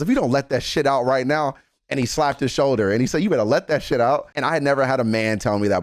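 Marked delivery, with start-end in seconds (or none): 0.0-1.6 higher-pitched, pushy encouragement from a friend; aggressive positiveness. Retold or imitated. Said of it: "It's that aggressive positiveness that I like". 3.2-4.3 higher-pitched, pushy encouragement from a friend; aggressive positiveness. Retold or imitated. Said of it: "It's that aggressive positiveness that I like".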